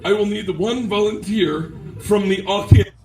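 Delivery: put-on measured German-accented command. German woman asking audience for one volunteer, German-accented command. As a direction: give orders in a German accent. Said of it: "his accent is on point".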